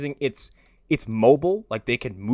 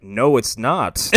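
slow, loud, put-on monster rebuff; mock-menacing, drawn-out put-down; Goro; 5 dB louder, much slower than usual. Goro shutting down Kano's chumminess, slow and unimpressed. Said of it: "And Goro's like".

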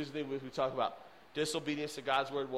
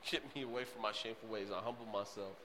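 quiet psalm prayer; 4 semitones lower, 7 dB quieter than usual. Retold or imitated. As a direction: lower and softer, a humble prayer. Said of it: "I love what the psalmist said".

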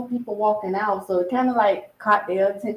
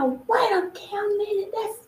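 mock yell; 12 semitones higher, slower than usual. Woman calling out of a car window, mock yell. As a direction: draw it out like calling from afar. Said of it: "the girl yelled out the window".

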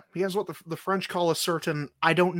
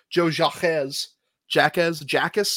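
French pronunciation. Shown as a demonstration. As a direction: say Jacques as a Frenchman would, zhahk. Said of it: "we got a French motherfucker on here".

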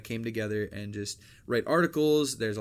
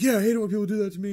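high, fast, gushing fake agreement; mock sympathetic friend; 10 semitones higher, 7 dB louder, much faster than usual. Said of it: "just be sitting there like".

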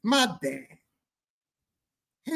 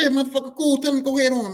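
higher, louder dad proclaiming; dad confirming; 12 semitones higher, 7 dB louder, faster than usual. Retold or imitated. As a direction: shout it proudly. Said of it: "He said".

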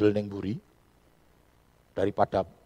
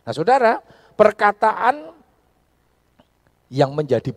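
louder, higher call to the congregation; loud pulpit call; 10 semitones higher, 12 dB louder than usual. Acted. Pastor calling the congregation to attention, loudly. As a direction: call out to the church.

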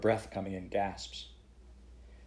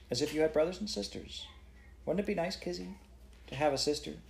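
a lightly coaxing, higher lady's voice; 8 semitones higher than usual. A narrator's reading. Woman magistrate to the scowling girl, gentle coaxing. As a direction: sweeten it to win the child over. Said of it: "coaxed the magistrate".

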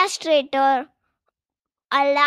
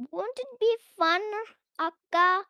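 excited; 4 semitones higher than usual. Acted. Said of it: "says Rosa excitedly".

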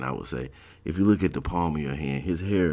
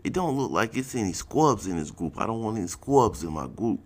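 much higher, lisping gold-teeth voice; Baltimore guy impression; 7 semitones higher than usual. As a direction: mimic the funny gold-teeth talk. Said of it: "he said it just like that".

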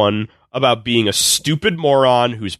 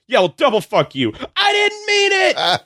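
mock flip to apology; 12 semitones higher than usual. Character flips from insult to apology.

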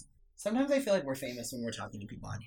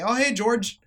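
put-on much higher, chipper old-man voice; imitating cheery grandpa; 10 semitones higher, 6 dB louder, slower than usual. Granddaughter mimicking grandpa's chipper greeting. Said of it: "he would say".

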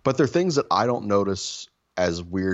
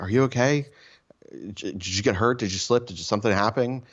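higher-pitched, mildly worried questioning; imitated concern; 4 semitones higher than usual. Partner checking on him after hearing a scream, mock concern. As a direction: imitate someone anxiously checking on them. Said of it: "this text out of concern".

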